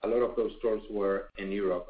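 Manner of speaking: ordinary delivery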